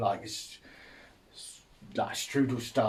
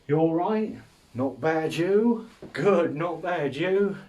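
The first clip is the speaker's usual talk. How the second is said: sing-song small talk; 6 semitones higher, 4 dB louder, slower than usual. Retold or imitated. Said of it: "Especially that one where it's like".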